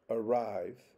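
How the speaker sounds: "arrive" with the second syllable stressed. Shown as a demonstration. Lecturer showing second-syllable stress in English, second syllable stressed. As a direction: lean on RIVE in "arrive". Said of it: "the second".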